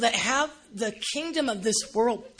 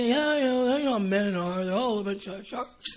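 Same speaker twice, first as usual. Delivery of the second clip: sarcastic shopper. Retold or imitated. Voicing shopper.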